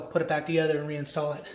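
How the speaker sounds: winded, breathing hard. Real, not acted. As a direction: talk while catching your breath. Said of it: "Wow, I'm out of breath".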